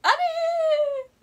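very slow, high, crying "あれー" drawn out; tearful wail. Retold or imitated. Girl wailing in shock after the teacher's scolding. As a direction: wail in hurt disbelief.

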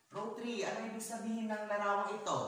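high, loud, fast question to a row; projected classroom question; calling out. Real, not acted. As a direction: call on a row of pupils briskly. Teacher calls on row three.

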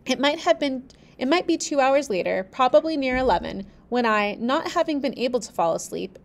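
steady storybook reading; measured narrator voice; story narration. A narrator's reading. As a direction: read the tale aloud, even and clear. Reads the novel aloud.

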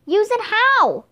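confused shout back to a friend. A narrator's reading. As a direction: yell back in flustered confusion. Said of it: "he shouted".

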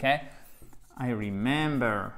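I remember said very slowly, the first syllable leaned on; slow teacher demo of remember for French learners; slow stressed demo. Shown as a demonstration. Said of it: "avec un accent tonique ici".

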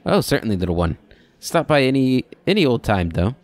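lightly voiced kindly old man; a hint of a fond old keeper. Old man NPC farewell.

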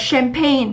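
teacher modelling "champagne" with sh, not ch; soft sh at the start of "champagne". Shown as a demonstration. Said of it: "nó đọc là sờ".

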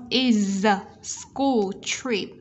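IS SCHOOL run together, voiced Z ending IS; linked sounds. Shown as a demonstration. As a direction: link "is school trip" smoothly. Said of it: "chúng ta sẽ nối âm".

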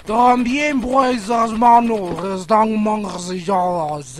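a lightly put-on pompous boss voice; silly boss voice. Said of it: "Estoy hablando como un imbécil".

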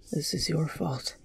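very soft, hushed blame; dazed, barely audible accusation; muttered. Acted. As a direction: mutter it under your breath. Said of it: "Kon muttered".

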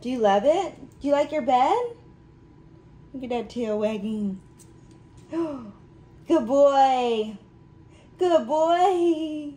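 delighted owner cooing at her dog; excited pet praise. Real, not acted. Praising dog on new bed.

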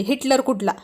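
plain reading voice

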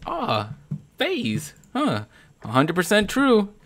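mocking others. Streamer imitating players impressed by his clan tag, mock tone. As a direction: parody the people who assume. Mocking what everybody assumes.

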